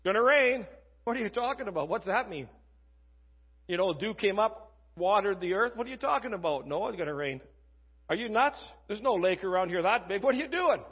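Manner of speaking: lightly acted incredulous townsfolk; mock scoffing. Preacher voices people ridiculing Noah's warning, mock incredulity. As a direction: imitate neighbors questioning a supposed crackpot. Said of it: "Thought he was a Looney Tune".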